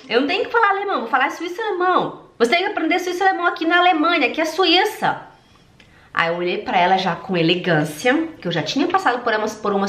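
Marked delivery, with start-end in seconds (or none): 0.1-5.2 higher-pitched mock scolding, fast; higher, hammed-up echo of the boss; mocking the Swiss lady. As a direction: parrot her lecture back in a raised voice. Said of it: "Ela falou".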